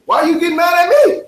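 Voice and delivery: high, fast, hurt protest; wounded waiter protesting. Retold or imitated. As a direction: plead you only meant well.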